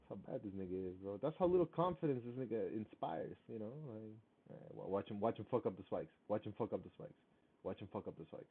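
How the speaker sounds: muffled, boomy mic sound; speaking through a muffled microphone. Real, not acted. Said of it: "my mic sounds muffled?".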